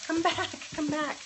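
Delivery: high-pitched coaxing call; playful calling. Pretend. Cook calling back what's really far away, playfully.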